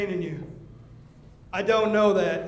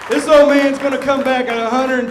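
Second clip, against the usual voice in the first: rising vow; 3 semitones higher, 3 dB louder than usual. Real, not acted. Wrestler vows comeback to fans.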